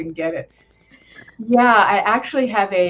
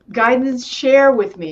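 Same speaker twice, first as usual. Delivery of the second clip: inner request; 6 semitones higher, 7 dB louder than usual. Shown as a demonstration. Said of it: "You're gonna say".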